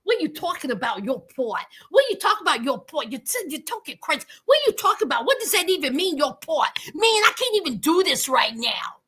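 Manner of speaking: understated mock rant ending in a whisper; mock Michael rant. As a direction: mumble his rant low like him. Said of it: "he was like".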